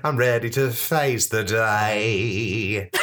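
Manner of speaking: very slow, grand intro voice; slow announcer voice. Pretend. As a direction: drawl it out like a TV feature opener. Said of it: "Steve's regular feature".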